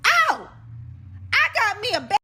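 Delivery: high, loud mock-thrilled cry; excited outburst. Woman reacting to learning he steals money, excited outburst.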